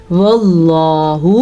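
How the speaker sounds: وَاللَّهُ with a heavy dark double l; full-mouthed Allah. Shown as a demonstration. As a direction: thicken the ل in وَاللَّهُ and stretch it. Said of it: "لفظ اللہ کو پر پڑھیں".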